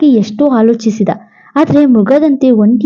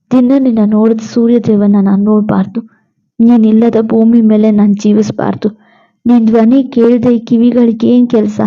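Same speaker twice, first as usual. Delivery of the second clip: lightly voiced devoted husband; 2 semitones lower than usual. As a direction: sound like a husband refusing to let her go. Narrator voices grieving hero.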